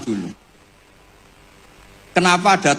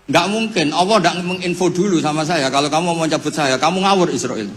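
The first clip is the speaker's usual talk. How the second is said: mild angry Ibrahim; 3 semitones higher than usual. Acted. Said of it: "makanya marah dia".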